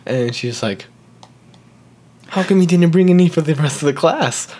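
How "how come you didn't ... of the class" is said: higher, accusing mock-teacher voice; imitated scolding teacher; teacher's reproach. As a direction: demand an explanation from a pupil. Retold teacher challenging child over stickers.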